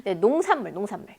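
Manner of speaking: ordinary talk, nothing marked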